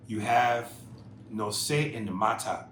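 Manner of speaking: lightly put-on African accent; a hint of an African accent. Host reading out the listener's catchphrase, light African accent. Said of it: "African voice".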